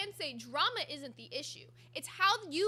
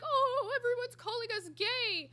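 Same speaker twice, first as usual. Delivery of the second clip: high, put-on mocking voice of the streamers; mock them in a high, fake-innocent voice; mocking whiny quote; 8 semitones higher, 3 dB louder than usual. Streamer mocks the couple's complaint, high and mocking. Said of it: "being like".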